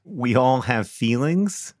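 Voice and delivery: slow, questioning repeat; incredulous echo. Real, not acted. Host repeating the publicist's remark to the writer, incredulous. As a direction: echo it slowly as a disbelieving question.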